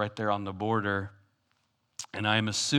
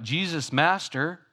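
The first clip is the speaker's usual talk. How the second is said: calling out; 3 semitones higher, 4 dB louder than usual. Retold or imitated. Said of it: "he was calling out".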